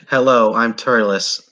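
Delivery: slow, lightly snooty greeting; a touch of haughty drawn-out politeness; snobbish. Acted. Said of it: "all snobbingly and says".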